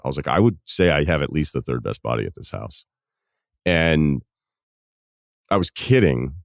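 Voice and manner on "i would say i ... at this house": deadpan boast, kept matter-of-fact; straight-faced, understated brag; retold deadpan. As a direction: deliver the joke as if totally serious. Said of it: "completely deadpan".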